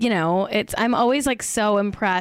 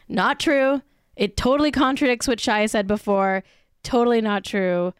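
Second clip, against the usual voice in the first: indignant rant, a bit louder; heated louder rant against the statement; 4 dB louder than usual. Real, not acted. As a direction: push back hard, fed up. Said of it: "That's my rant".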